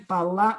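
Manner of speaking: "Pala-" broken off on a punched "la"; stress on second A. Shown as a demonstration. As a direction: hit the "la" in "Pala-" and stop. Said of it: "a sílaba tônica não é no A?". ("Pala-" com força na sílaba "la")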